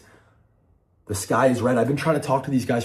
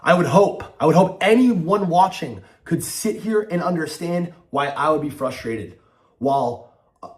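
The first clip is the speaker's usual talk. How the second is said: raised, heated ranting; angry; 5 semitones higher, 4 dB louder than usual. Real, not acted. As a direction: shout it out in frustration. Angry venting about FaZe members.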